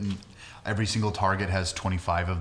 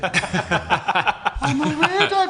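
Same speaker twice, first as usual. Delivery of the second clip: high, slow, hammy posh English voice; bad posh accent; 6 dB louder, slower than usual. Shown as a demonstration. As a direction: ham up a fake posh British accent. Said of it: "and I kind of talk like this".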